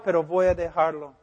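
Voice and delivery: pecador imaginado. Retold or imitated. Pecador imaginado habla al pastor.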